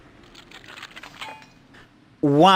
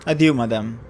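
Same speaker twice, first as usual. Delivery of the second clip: theatrical fortune teller. Acted. Fortune teller tempting a customer, mysterious and grand. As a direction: play the old fortune teller weaving her pitch.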